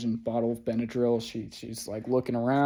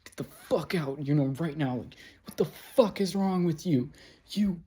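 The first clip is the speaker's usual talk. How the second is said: strained, higher-pitched fury held back from shouting; suppressed scream; 5 semitones higher than usual. Retold or imitated. Furious at her in the dollar store, trying not to scream. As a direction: seethe it out, pitch climbing, volume held in. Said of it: "I'm trying not to scream in the fucking dollar store".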